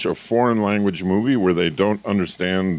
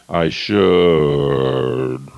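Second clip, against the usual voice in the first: much lower, sagging tone; falling should; 7 semitones lower than usual. Shown as a demonstration. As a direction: let the pitch sink on should. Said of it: "The musical tone goes down".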